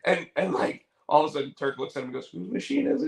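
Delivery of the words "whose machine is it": high shouted question; rally him like a hype man; mock call-out. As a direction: Turk baiting the doctor, high mock shout. Turk calling out question.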